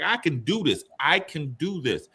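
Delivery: retold eager determination. Young player wanting to prove himself to dad, eagerly determined.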